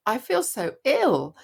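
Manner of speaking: a mild imitation of a tearful plea, slowed down. Daughter tells mum she feels so ill, lightly tearful. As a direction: retell her tearful words gently, without real crying. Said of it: "She burst into tears".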